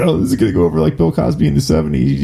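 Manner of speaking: quick, lightly put-on staffer voice; mock staffer voice. Host imitates her staffer pitching the joke, fast mock voice. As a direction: rattle it off as a smug aide. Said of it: "Some staffer on her team said".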